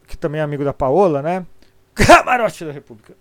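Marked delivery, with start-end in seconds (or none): 2.0-3.2 called out loudly, proudly; announcing. Real, not acted. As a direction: proclaim the name like a show title. Brand name called out.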